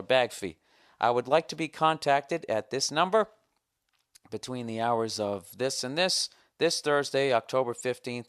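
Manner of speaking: emphatic, official-sounding sign-off; formal letter reading. Acted. Customer reading out his refund demand and signature, formal. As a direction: announce the demand in letter style.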